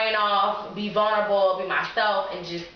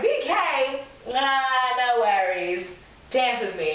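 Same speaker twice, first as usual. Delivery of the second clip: sultry invitation; 3 semitones higher, slower than usual. Retold or imitated. Seducing him, acted quote.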